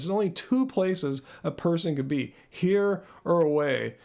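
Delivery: lightly imitated Scottish speech; Scottish accent. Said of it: "I think they said it like this".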